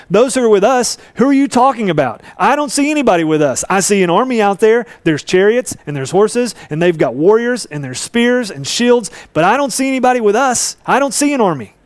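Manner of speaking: confused servant who can see no allies; bewildered servant. Acted. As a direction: servant doubting Elisha while looking at the army. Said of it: "imagine him looking around and going".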